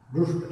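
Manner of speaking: दुष्ट with tongue curled back on ष; careful teaching दुष्ट with retroflex sh; correct retroflex ष. Shown as a demonstration. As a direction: isolate दुष्ट, ष made far back in the mouth. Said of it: "सही उच्चारण क्या होगा".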